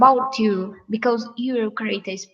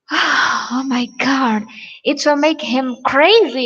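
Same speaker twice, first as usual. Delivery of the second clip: exasperated; 3 semitones higher, 6 dB louder than usual. Real, not acted. Exasperated warning.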